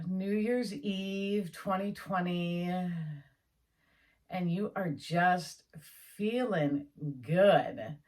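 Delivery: slow, drawn-out visualization voice; unhurried guided visualization with long pauses; guided imagery. Acted. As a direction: lead them gently into the picture, slowly.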